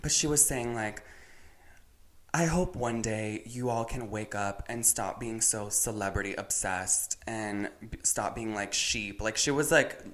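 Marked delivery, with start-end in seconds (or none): 2.3-9.2 low, measured mild condescension; talking down. Retold or imitated. Friend quoting a TikToker about celebrity followers, mildly condescending. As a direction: imitate someone lightly talking down, lower and softer. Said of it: "talking down on people that".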